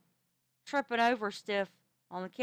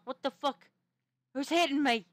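baffled, raised outburst; retold alarm; 4 semitones higher, 4 dB louder than usual. Storyteller re-enacting being hit by someone unseen, alarmed and baffled. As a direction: act out being startled and confused. Retelling bafflement at invisible attacker.

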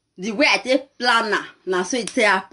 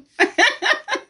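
high-pitched burst of laughter; real laughter; 14 semitones higher than usual. Real, not acted. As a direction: crack up at your own story. Laughs at her own story.

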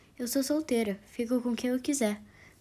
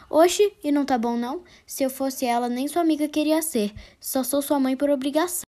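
mocking mother; 3 semitones higher, 5 dB louder than usual. Mother mocking son's rejection.

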